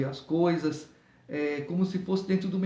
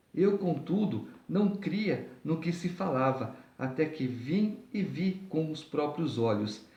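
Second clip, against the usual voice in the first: measured, deliberate Bible reading; scripture reading. Acted. Preacher reading the chapter to listeners, formal scripture reading. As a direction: read the chapter aloud in careful phrases.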